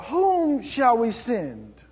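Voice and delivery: slow, drawn-out, resonant question; the Lord asking who will go, grave and slow; solemn divine call. Acted. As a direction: ask it slowly like a voice from heaven. The Lord calling for messenger.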